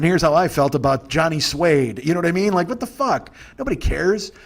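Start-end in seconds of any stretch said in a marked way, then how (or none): 0.0-2.0 slow, louder, hammed-up everyman intro; cheesy amateur reviewer, a bit slow and loud; mock regular-guy reviewer. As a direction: play a bland guy hosting his own review show. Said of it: "regular guy movie reviews".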